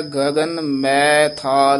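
slow, clear ਗਗਨ ਮੈ ਥਾਲ with ਮੈ said as a short open "mɛ"; careful recitation. Shown as a demonstration. Teacher showing the student how to say ਮੈ, slow and clear. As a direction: spell out ਮੈ gently for the student. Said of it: "ਮੈ ਉਚਾਰਨ ਇਸ ਨੂੰ ਕਰਨਾ ਹੈ".

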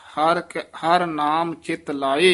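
ਹਰ ਨਾਮ ਚਿਤ ਲਾਏ slowly, rising on ਲਾਏ, then a stop; slow and pause at ਲਾਏ; pause after ਲਾਏ. Shown as a demonstration. Teacher shows where to pause, slow. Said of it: "ਇੱਥੇ ਵੀ ਠਹਿਰਾ ਦੇ ਦੇਣਾ".

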